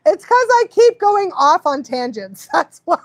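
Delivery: loud, high, slowed self-mocking outburst; mock exasperation. Real, not acted. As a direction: blurt it out, exasperated with yourself. Mock-exasperated answer to the chat.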